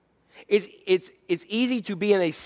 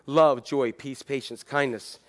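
worn-out pastor; 6 semitones lower, 5 dB quieter than usual. Retold or imitated. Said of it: "pastors who say".

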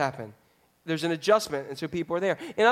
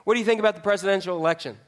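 quick question; faster than usual. Retold or imitated. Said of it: "Ask them this question".

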